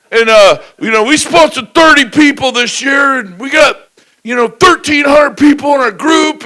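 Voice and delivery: hammed-up peppy wife, high and loud; excited wife. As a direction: hype the crowd like an overeager spouse. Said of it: "they're like".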